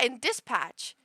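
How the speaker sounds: "dispatch" stretched slow with a firm P; strong P. Retold or imitated. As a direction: say "dispatch" slowly, popping the P of patch. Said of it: "You pronounce the P really strong".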